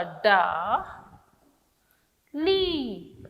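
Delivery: डा then ली, each sounded apart; sounding out syllables for pupils. Shown as a demonstration. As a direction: spell it out in syllables. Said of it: "ल में कौन सी मात्रा".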